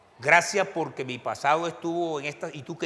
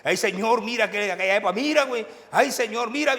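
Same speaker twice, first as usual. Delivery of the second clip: mock pleading prayer; 7 semitones higher, 5 dB louder than usual. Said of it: "yo me acuerdo".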